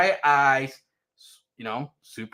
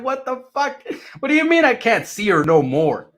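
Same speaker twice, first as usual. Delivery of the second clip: defiant attitude; 6 semitones higher, 6 dB louder than usual. Retold or imitated. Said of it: "That was my attitude".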